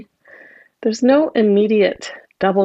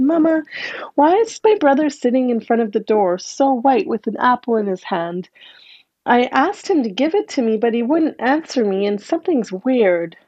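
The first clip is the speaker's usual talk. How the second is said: put-on worried little girl; 3 semitones higher than usual. Little girl tells her mother.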